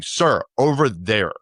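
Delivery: slow, stretched-out correction; mildly exasperated official, spelling it out slowly; frustrated retelling. Retold or imitated. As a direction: imitate a guard losing patience. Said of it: "he's getting very frustrated with me".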